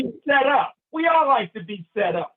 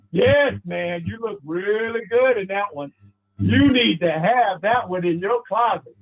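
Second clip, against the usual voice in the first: lower-pitched, smooth suit seller; flattering salesman; 4 semitones lower than usual. Retold or imitated. Shop salesman complimenting customer on suit, flattering.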